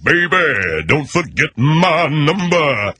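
put-on slow, crooning German accent; drawled German-accented come-on; German-accented pop singer. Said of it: "Those cats talk like that".

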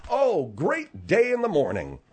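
exaggerated mock innocence, pitch swooping; sarcastic. Host mock-praises Margaret for understanding, sarcastic. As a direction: deny it while laying the sarcasm on. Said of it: "be sarcastic".

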